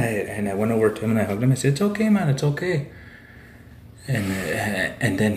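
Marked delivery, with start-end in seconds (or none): 1.7-2.9 high, gently pitched retold reassurance; reassuring. Storyteller re-enacts hugging his crying buddy, high-pitched reassurance. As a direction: reassure an upset buddy, voice lifted.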